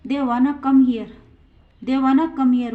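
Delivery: slow, clear example for students; teacher reading it out slowly to the class; slow model sentence. Shown as a demonstration. Teacher models the sentence, slow and clear. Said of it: "चौथा example है".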